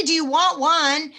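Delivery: fast, loud hard sell; mock pushy salesperson; pushy wrong pitch. Shown as a demonstration. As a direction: rush and push the customer. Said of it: "You don't say".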